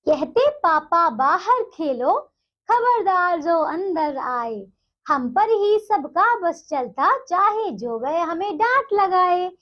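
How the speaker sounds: slow, measured sing-song reading of the verse; poem recitation. Acted. Teacher reciting the poem to young pupils, slow and rhythmic. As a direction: draw each line out like reciting a poem to a class.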